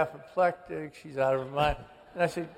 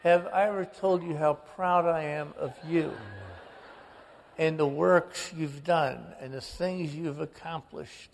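father's phone voice. Retold or imitated. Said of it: "And I said, ... And it's Dad".

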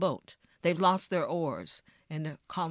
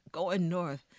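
ordinary delivery

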